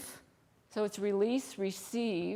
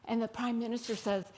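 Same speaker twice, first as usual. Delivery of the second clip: ordinary talk, nothing marked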